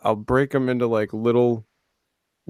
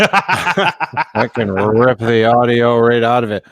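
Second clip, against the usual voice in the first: laughing; 3 dB louder, slower than usual. Real, not acted. Gleeful about ripping the clips.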